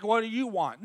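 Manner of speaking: mildly blunt, mocked-up challenge; understated mock-impatient question; brusque demand. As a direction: ask it curtly, as if bothered. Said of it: "So don't get Jesus all, like, in your vernacular".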